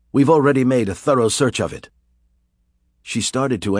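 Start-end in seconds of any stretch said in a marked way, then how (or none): 0.1-1.9 impatient demand. Acted. Villain demanding.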